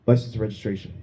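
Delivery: stoned cop. Pretend. Stoned cop at the car window, dazed and lost. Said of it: "This is a cop who's super stoned".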